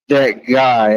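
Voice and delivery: ordinary talk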